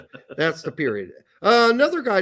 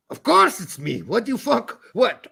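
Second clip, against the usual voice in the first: goat voice; 4 semitones higher than usual. Pretend. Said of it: "Hey, getting better".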